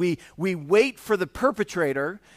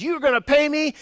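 higher, louder mock berating; berating servant; 10 semitones higher, 6 dB louder than usual. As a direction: snap at the debtor, half-acted. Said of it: "he starts to really berate him".

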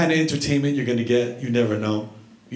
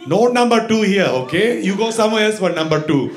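indignant barber; 2 semitones higher than usual. Retold or imitated. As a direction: refuse it like it's an insult. Barber indignant about number two.

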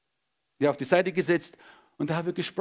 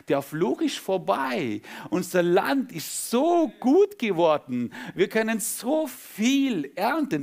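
preaching; 3 semitones higher than usual. Acted. Preacher to his congregation, fervent preaching.

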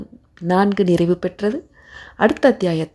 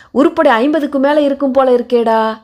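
higher-pitched, pressing query; suspicious policeman; 6 semitones higher, 4 dB louder than usual. A narrator's reading. Policeman questions the keeper about the crowd, suspicious and pressing. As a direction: size them up with suspicion. Policeman grills Perumal over the headcount.

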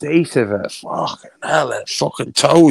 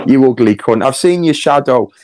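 louder, spitting the insult out; angry insult; 5 dB louder than usual. Real, not acted. Ranting at Emma on a live stream, loud and angry. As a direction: lash out at her in a loud burst.

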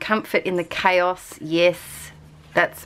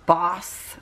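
American-accented "boss". Real, not acted. Vlogger reading stamp words aloud, American accent on "boss". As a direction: say it with an American vowel. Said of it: "I always say boss in an American accent".

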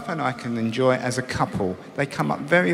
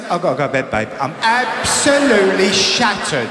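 tired wife; 2 semitones higher, 3 dB louder than usual. Retold or imitated. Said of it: "she says".

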